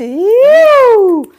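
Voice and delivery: long, high, loud "woo"; loud drawn-out cheer; celebratory whoop. Real, not acted. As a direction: let out a ringing high whoop. Cheers the arrival of a superchat.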